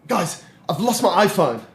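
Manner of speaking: urgent, imitated alarm; retold freak-out. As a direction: act out a guy panicking over a loss. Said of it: "he's freaking out".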